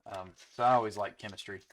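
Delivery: quick nerdy lilt; nerd voice. Pretend. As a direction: say it like an eager science nerd. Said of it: "I made my nerd voice".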